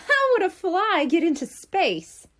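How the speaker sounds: amused disbelief, laughing as he asks. A narrator's reading. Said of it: "Buster laughed".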